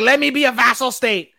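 high, bright-eyed eager plea; mock eager emperor. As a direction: play the emperor begging to submit.

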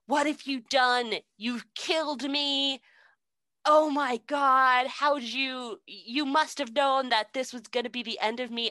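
mock dying witch. Witch melting and crying out at Dorothy. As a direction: wail as if dissolving.

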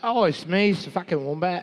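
high put-on wombat voice. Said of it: "a wombat".

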